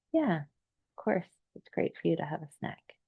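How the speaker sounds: a kind inner voice giving permission; gentle reassuring voice. Retold or imitated. The inner self soothing the client about a snack, softly reassuring. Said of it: "I hear myself voice just saying".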